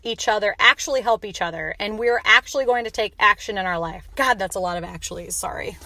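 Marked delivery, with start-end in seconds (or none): 0.0-4.1 passionate overboard. Real, not acted. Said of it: "I got a little overboard there".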